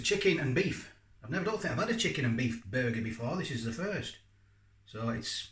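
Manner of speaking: chewing while talking; muffled between bites; mouth full. Real, not acted. Seen 2: lips pressed, chewing motion, burger held low in frame.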